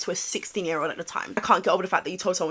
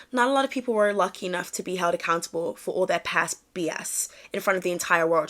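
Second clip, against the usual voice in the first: put-on American accent for reading a tweet; second go at a playful American accent; 3 semitones lower, 3 dB quieter than usual. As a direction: read it out in an imitation American accent. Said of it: "let me read it in American accent".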